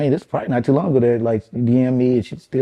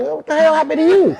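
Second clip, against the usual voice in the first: imitating family back home. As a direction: parody the relatives teasing him. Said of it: "that's how they fucking sounded to me".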